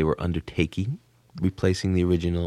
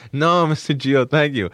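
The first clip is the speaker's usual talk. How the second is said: put-on polite boys; 7 semitones higher, 6 dB louder than usual. Boys politely decline, acted.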